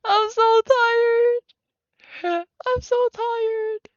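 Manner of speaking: very high, drawn-out mock complaint; slow, high-pitched mock exhaustion; exaggerated weary wail. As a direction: wail it high and slowly, hammed-up. Exaggerated complaint after laughing fit.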